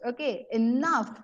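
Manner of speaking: a mild retold headmaster's call of "Okay, enough"; mock shout. Teacher retelling Dumbledore silencing a chaotic hall, mild mock shout. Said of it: "he shouts".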